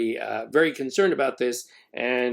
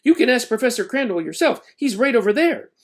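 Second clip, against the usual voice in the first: Zoe's voice; 9 semitones higher, 4 dB louder than usual. A narrator's reading. Zoe voiced, defending Ben.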